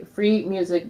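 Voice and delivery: "free" repeated with deliberate emphasis; "free music" with "free" as the key word; stress on free. Real, not acted. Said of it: "emphasis on free".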